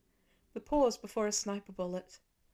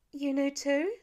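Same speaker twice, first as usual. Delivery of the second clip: higher and louder, stunned; shocked; 5 semitones higher, 4 dB louder than usual. A narrator's reading. Lila learns her mother knew, shocked. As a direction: catch the betrayal in the question.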